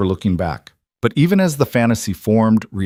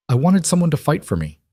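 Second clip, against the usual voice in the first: torn out; 7 semitones higher than usual. Acted. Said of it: "The words tore out of Isabella's throat".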